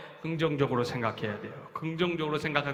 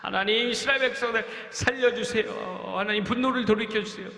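earnest prayer; 7 semitones higher than usual. Acted. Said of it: "간절히 하나님 앞에 기도합니다".

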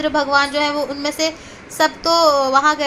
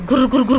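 imitating a growl; 4 semitones lower than usual. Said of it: "हूं, हूं कर रहा है".

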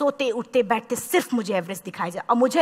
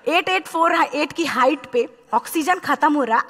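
laughing; 4 semitones higher than usual. Real, not acted. Audience laughing at oxygen joke.

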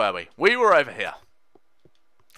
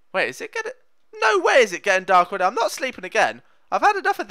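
panicked; 7 semitones higher, 4 dB louder, faster than usual. Real, not acted. Panics as night falls in game.

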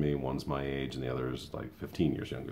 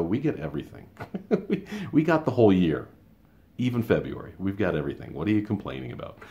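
higher, louder, half-laughing disbelief; exasperated retort; 5 semitones higher, 4 dB louder than usual. Retold or imitated. Retold retort to a coworker's complaint, exasperated and incredulous. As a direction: scoff at the complaint with rising heat.

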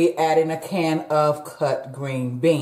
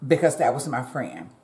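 choked up; 4 semitones lower, 4 dB quieter than usual. Real, not acted. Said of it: "I'm just a little choked up".

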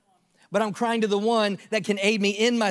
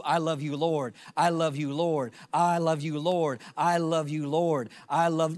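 repeated devotion; 3 semitones lower than usual. Retold or imitated. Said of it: "I don't know how long I said that".

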